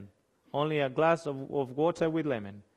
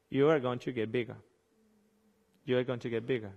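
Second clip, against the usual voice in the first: quiet warning; 6 semitones lower, 7 dB quieter, faster than usual. Real, not acted. Warning repeated twice, dropped voice.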